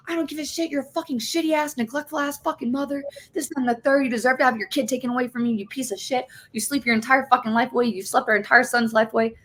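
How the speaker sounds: high sneering husband voice, fast in places; mocking husband. Imitating her husband calling her a neglectful mother. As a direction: spit the insults in a high mocking voice. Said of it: "And he was like".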